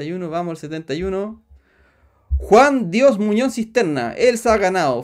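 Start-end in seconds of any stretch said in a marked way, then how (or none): 2.4-5.0 announcing the winner. Real, not acted.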